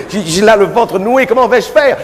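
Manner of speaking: stage-fright panic rising in pitch; nervous young seminarian. Acted. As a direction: fret about saying mass, voice climbing. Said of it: "lui dit".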